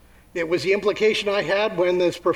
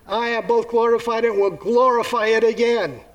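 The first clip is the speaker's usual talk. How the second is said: voice from heaven; 4 semitones higher than usual. Acted. Voice from heaven answering Jesus, lightly booming. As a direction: announce it like God from the sky. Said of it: "A voice came from heaven".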